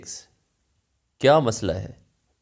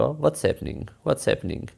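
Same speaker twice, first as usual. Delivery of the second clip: quick and clear; 4 semitones higher, much slower than usual. Shown as a demonstration. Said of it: "फिर जितना जल्द बोलने की कोशिश करें".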